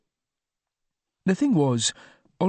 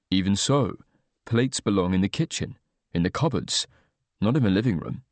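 lower, measured, hesitant reserved man; reserved Oliver; 4 semitones lower than usual. Acted. Oliver shyly deflecting Luke's bath invitation, low and hesitant.

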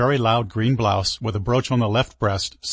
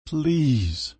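desperate plea; 6 semitones higher than usual. Acted. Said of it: "His desperation was back".

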